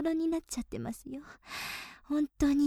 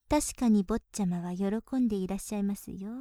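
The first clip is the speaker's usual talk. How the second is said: lower, settled 確かに stressed at the start; lower knowing reply; 4 semitones lower than usual. Acted. Maid confirming to her master, lower and knowing. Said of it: "喜んでいらっしゃいませんか".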